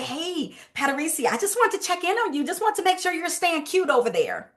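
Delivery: bright upbeat check-in call; friendly sales follow-up, upbeat and light; light happy check-in. Shown as a demonstration. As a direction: sound happy to hear from her. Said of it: "Light, energy, happy".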